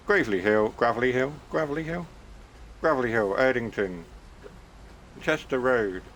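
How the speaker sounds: driver doing a hammed-up onboard announcement; mock train announcement. Train driver to passengers, playful announcement voice. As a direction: call out each stop like a train tannoy. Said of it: "should I do it properly?".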